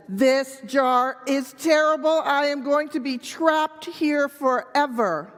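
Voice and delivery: a touch of despair, played for children; lightly hammed-up monkey complaint; mildly melodramatic trapped monkey. Monkey wails that he is stuck.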